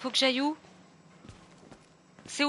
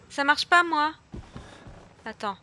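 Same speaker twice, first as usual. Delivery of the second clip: usual speaking voice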